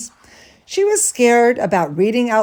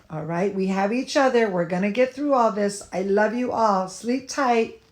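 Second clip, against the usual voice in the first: tucking in at bedtime; 4 dB quieter than usual. Real, not acted. Tucks in young dancers.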